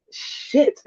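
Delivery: breathy whispered "Shit."; whispered curse. Retold or imitated. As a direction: mutter it under your breath in dismay. Inner thought about losing money.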